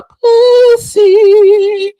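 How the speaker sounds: high, loud shout; yelled insult. Real, not acted. Vlogger yelling an insult at Layla. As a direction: spit the insult out.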